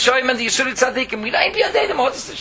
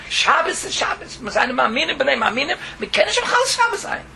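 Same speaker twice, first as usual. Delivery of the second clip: high, pleading rabbi's voice rising at the end; insistent rabbi; 5 semitones higher than usual. Retold or imitated. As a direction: plead that Shabbos is Shabbos. Rabbi quoted insisting on Shabbos.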